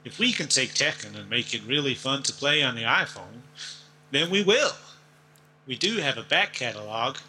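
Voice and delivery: put-on lightly drawled American Southern accent; Deep South accent. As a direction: quote it like an old-time Southern character. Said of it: "sounded like somebody from the deep south".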